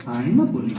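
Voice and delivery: stunned by the insult; mock shocked cousin. Cousin hearing a rude word, mock shocked repeat. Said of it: "She goes".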